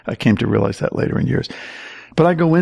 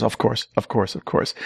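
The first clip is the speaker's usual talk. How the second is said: much softer, patient indulgence; a priest gently humoring a boastful young man, quietly; softly humoring; 6 dB quieter than usual. Retold or imitated.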